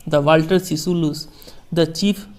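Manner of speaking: slow, measured reading of a famous speech; formal speech reading. Acted. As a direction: read each phrase slowly, like quoting a statesman. Teacher reads Mandela speech slowly. (धीमा, गंभीर भाषण पाठ)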